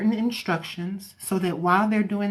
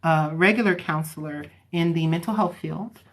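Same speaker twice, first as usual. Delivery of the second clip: normal talking voice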